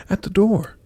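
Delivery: high, excited stepsister squeal; contained storybook screech; mild mock scream. A narrator's reading. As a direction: squeal the news without a full scream. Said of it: "screamed the other stepsister".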